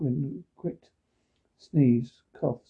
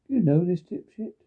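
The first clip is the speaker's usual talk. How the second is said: angry; 4 semitones higher, 5 dB louder than usual. Acted. Bully confronting kid.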